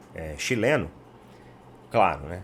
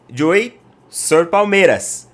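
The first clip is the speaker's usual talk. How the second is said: mock Spanish accent, slower and a bit louder; playful portunhol; 4 semitones higher, 6 dB louder, slower than usual. Tourist answering the Chilean barista, in mock Spanish accent. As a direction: fumble through it in half-hearted Spanish accent. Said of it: "naquele portunhol".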